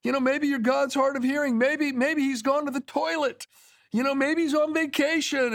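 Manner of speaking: sarcastic taunt, pitched high; mocking. Elijah taunts the prophets of Baal with high sarcastic mockery. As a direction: needle them with mock concern. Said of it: "Elijah's mocking them".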